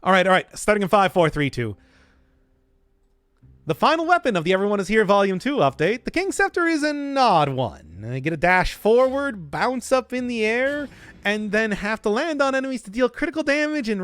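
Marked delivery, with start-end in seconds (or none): 3.7-8.1 quicker, punchier video intro read; snappier intro retake. Shown as a demonstration. Streamer retakes the video intro, faster and punchier. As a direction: redo the opener with more drive, fast. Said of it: "One more time".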